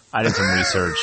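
mock dramatic. Producer dramatically confessing his mistake.

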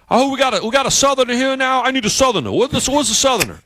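high, excited mock coworker voice; hammed-up Yankee coworker calling out; New England coworker. Coworker hunting for a Southerner, high mock voice. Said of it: "and he goes".

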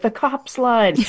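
poor imitation of a Scottish tourist, lightly accented; lightly mimicked Scottish accent; attempted Scottish accent. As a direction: have a half-hearted go at a Scottish accent. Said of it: "I can't do a Scottish accent".

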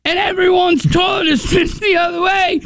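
put-on high excited kid, nearly shouting; high panicked kid voice. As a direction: play a frantic kid on the phone. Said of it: "the kid's like".

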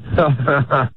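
put-on laugh on request; a short demonstration fake laugh. Shown as a demonstration. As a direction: laugh as if faking it. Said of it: "let me hear your fake laugh".

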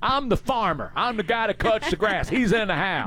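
high-pitched impersonation of a husband denying it; Carl Dean's retort. Retold or imitated. Husband fobbing off fans from his tractor, high mock retort. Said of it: "And he would say".

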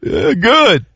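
high, slow Jamaican patois lilt; Jamaican accent. Retold or imitated. Pilot asking about his stay, in a high Jamaican accent. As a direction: sing it out like an island greeting. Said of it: "how your stay so far".

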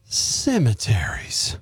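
slow, hushed ghost-story voice; spooky whisper. Acted. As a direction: drawl it out like a scary tale. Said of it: "you're trying to sound like a sexy ghost".

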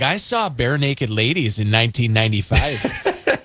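lightly imitated Alberta accent, lilting up at the end; playful mock Alberta accent. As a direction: mimic an Albertan fan, drawing out the last words. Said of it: "in that Alberta accent".

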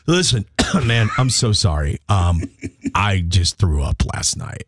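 low, coughing, slowing at the end; fake sick voice. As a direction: fake a cough to sound ill. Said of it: "I'd always put a cough in it".

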